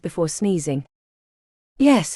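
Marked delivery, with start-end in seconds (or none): 1.8-2.1 thundered. A narrator's reading. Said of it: "he thundered".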